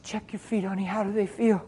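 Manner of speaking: soft, tender question; hushed, caring inquiry; retold gentle check. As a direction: speak softly to someone being prayed for. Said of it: "I said".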